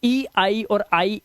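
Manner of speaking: letters named slowly one by one; slow spelling. Shown as a demonstration. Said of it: "teacher spelling out letters".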